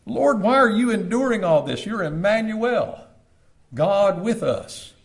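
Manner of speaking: high, loud and slowing plea; anguished plea. Pretend. Preacher begging the suffering Lord for an answer, high and loud. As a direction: cry out the question, stretching the last words.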